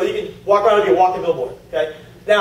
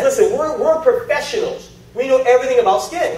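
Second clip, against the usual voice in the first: higher-pitched mock professional pride; self-important; 4 semitones higher than usual. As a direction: imitate an esthetician with an ego. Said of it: "she'll admit estheticians have egos".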